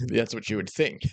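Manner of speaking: laughing through the words; chuckling while saying it. Real, not acted. Repeats line, laughing.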